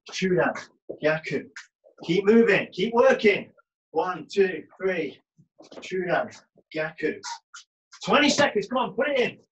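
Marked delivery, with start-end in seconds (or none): 2.0-3.5 coach shouting encouragement. Real, not acted. Coach urging class on. 8.0-9.4 coach shouting encouragement. Real, not acted. Coach calling final seconds.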